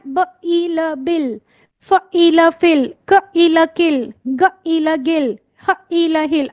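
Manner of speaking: each word sounded out letter by letter, then blended; rhythmic phonics drill; phonics blending. Shown as a demonstration. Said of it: "break the words like this".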